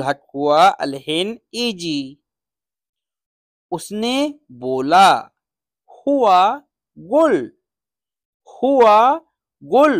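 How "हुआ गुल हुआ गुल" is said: हुआ and गुल called out higher as separate words, each word stressed; pronunciation drill. Shown as a demonstration. Teacher drilling students, each word called out higher and clearly. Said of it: "हुआ यानी वो हो".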